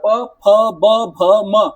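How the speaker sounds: प फ ब भ म said one by one, lips closing and opening; sounding out labial consonants. Shown as a demonstration. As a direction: pop each of प फ ब भ म through the lips. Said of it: "पूरा आपका मुंह खुल रहा है, बंद हो रहा है".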